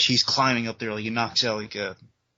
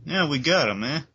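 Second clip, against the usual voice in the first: a cop calling out, the last call much higher and rising; 4 semitones higher than usual. Retold or imitated. Harvey Bullock calling to wounded Gordon, urgent call. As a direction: call to the downed commissioner, getting urgent. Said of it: "Harvey Bullock saying".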